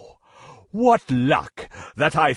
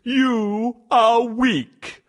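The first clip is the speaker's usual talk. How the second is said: mocking; 7 semitones higher, slower than usual. Lion mocks mouse.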